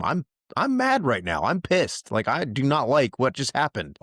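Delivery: measured but indignant complaint, key words pushed high; mock venting anger. Voicing telling God one is mad.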